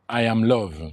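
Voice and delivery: low, measured mantra recitation; mantra reading. Acted. Man reading a mantra to his live audience, low recitation.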